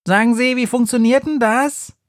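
ask, baffled by the gadget; puzzled shopper. A narrator's reading. Woman puzzles over her laugh-bag, asking. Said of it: "fragt eine Frau".

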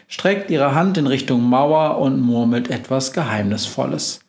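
ordinary delivery

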